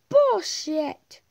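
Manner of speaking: loud frustrated curse; exasperated shout; angry curse. Real, not acted. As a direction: snap it at the game. Losing to boss.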